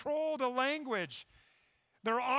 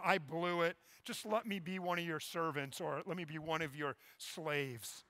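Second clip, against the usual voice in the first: rehearsed apology; 4 semitones lower than usual. Retold or imitated. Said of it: "he's rehearsing his apology speech".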